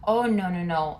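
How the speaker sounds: sudden loud panicky no, no; retold panicked no; alarmed no. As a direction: blurt out a startled refusal. Panicked reply to alarming texts.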